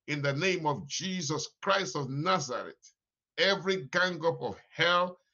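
forceful binding declaration; laying a curse. Real, not acted. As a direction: preach it hard, rebuking death. Declaring, cancelling death.

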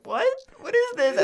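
high, loud disbelief; imitated high-pitched shock; mock bewilderment. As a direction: act out a baffled class. Baffled students quoted.

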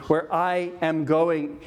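slow, weighted stress on "I am going"; "Where I am going", slowly, leaning on I; emphatic I. Shown as a demonstration. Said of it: "there's an emphatic use here".

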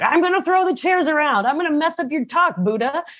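high, fast, hammed-up demon threat; taunting demon. Demon Mara threatening to wreck the Buddha's talk, high and mocking. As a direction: play the demon gleefully daring the Buddha. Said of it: "a demon, came up and was like".

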